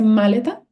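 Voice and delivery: "maleta" wrongly stressed on the first syllable, MA. Shown as a demonstration. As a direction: hit MA in "maleta", as a question.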